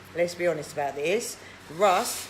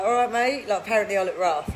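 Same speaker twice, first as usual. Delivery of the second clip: confronting Russ; 2 semitones higher than usual. Pretend. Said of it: "And just be like".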